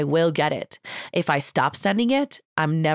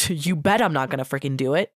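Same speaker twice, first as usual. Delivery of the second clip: chuckling through the line; amused self-mockery; laughing; 5 semitones lower, faster than usual. Real, not acted. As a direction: laugh it off at yourself.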